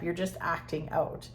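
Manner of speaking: ordinary talk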